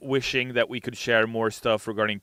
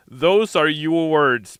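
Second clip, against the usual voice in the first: mock outrage; 7 semitones higher, 11 dB louder, slower than usual.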